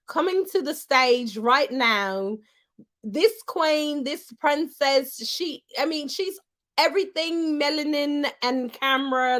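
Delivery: lightly voiced emcee intro, barely changed; a hint of her hype-host voice. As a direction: hype her up like she would. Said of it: "I'm gonna try to do it in the voice that she does".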